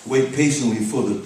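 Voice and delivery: emphatic spoken-word recital; rhythmic poem reading; poetry reading. Acted. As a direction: pick the verse back up with force.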